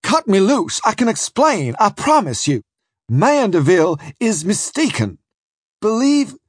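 high, desperate protest; pleading cry. A narrator's reading. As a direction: plead urgently to be believed. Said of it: "I cried".

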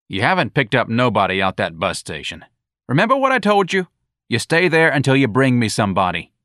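loud, high scolding; angry sergeant. Acted. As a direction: berate him loudly. Sergeant berating.

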